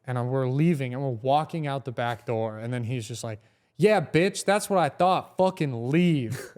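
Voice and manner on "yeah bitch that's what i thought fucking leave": lightly jeering retold taunt; mock taunt. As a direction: throw it after someone leaving, higher at first. Drunk rival taunts him as he leaves.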